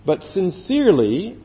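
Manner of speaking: emphatic, stretched "sincerely"; stress on SINCERELY. Shown as a demonstration. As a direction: lean on the word "sincerely". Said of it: "I want to emphasize the word sincerely".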